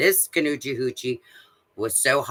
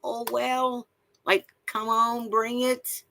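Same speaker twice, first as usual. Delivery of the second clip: mocking tough guy; 10 semitones higher than usual. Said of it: "their mentality level is".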